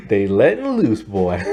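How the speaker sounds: real chuckle breaking into the words; amused, laughing. Real, not acted. Reviewer joking about nuns playing kickball, laughing. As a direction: say it through a laugh.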